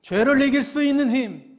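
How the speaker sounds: loud, high, emphatic sermon climax; full-force preaching. Real, not acted. Preacher telling the congregation they need strength, forceful preaching.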